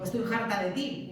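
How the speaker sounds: "harta" pronounced Andalusian-style, like "jarta"; H aspirada andaluza. Shown as a demonstration. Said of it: "esa H se acaba aspirando". ("harta" con la hache aspirada andaluza)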